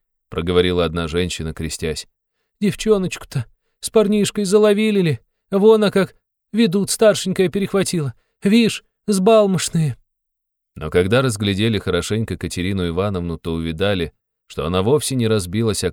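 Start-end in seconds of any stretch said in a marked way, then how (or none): 2.6-10.0 high, loud, slowing folksy gossip; a common townswoman exclaiming; crowd woman. A narrator's reading. (высокий голос простой бабы)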